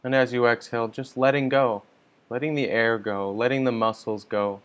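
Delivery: calm, measured meditation guidance with long pauses; unhurried meditation leader, leaving space between instructions; guided meditation. Real, not acted. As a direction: guide listeners gently into settling, phrase by phrase.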